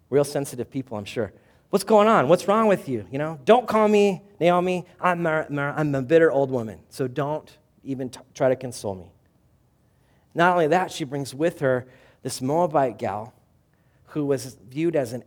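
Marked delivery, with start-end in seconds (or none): 1.7-9.1 loud, high, bitter retort; bitter outburst. Retold or imitated. Naomi telling the town not to console her, loud and bitter. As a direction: snap back like a bitter old woman. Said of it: "Naomi retorts to townspeople".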